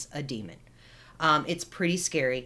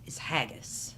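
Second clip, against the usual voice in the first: whispering; 4 semitones lower, 8 dB quieter than usual. Pretend. Spooky whisper of the witch's name.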